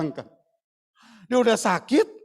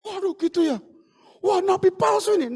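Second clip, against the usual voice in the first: mock angry outburst; 10 semitones higher than usual. Preacher imagining a king shouting at a false prophet, indignant. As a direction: accuse him of being a false prophet.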